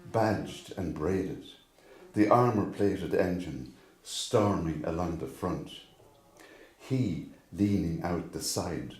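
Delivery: measured poem recitation, long pauses between phrases; poem reading. Acted. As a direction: recite it line by line, each phrase starting firm and falling away. Reads own poem aloud.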